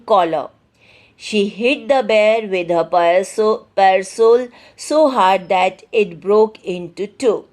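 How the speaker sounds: deliberate, emphatic classroom reading; measured textbook narration; story read-aloud. A narrator's reading. Reads the story text aloud.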